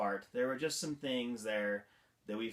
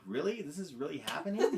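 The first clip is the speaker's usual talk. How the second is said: amused disbelief; 3 semitones higher, faster than usual. Retold or imitated. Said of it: "I just sat there in disbelief".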